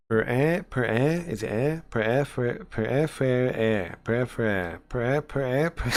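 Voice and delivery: repeated tries at "per, eh, fair", piece by piece; practising French sounds. Shown as a demonstration. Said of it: "me try again".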